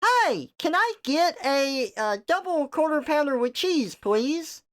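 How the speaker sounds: polite drive-thru order voice; customer service voice. Shown as a demonstration. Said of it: "customer service voice".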